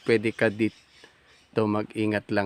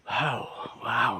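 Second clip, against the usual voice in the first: usual speaking voice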